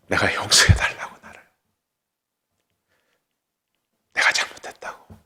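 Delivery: whispered confession; hushed apology. Retold or imitated. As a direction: whisper the plea for forgiveness. Retold tearful apology. (속삭이듯 용서를 구하며)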